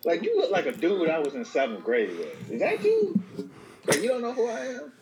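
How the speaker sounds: high, excited, fake recognition; overeager old classmate. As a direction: greet him like a long-lost schoolmate. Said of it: "should be like".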